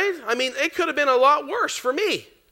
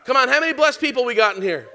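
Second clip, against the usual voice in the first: calling out; 4 dB louder than usual. Real, not acted. Preacher repeats, calling crowd.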